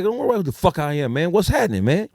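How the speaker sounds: angry retort. Retold or imitated. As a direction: push back hard at the stranger. Friend confronting the stranger.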